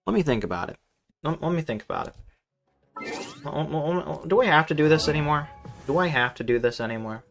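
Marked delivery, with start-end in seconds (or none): none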